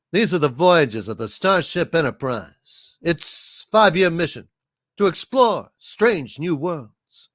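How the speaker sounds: lightly voiced starship captain; measured captain's monologue with dramatic pauses; halting, declaimed space-show intro; Kirk. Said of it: "Please do your Kirk voice".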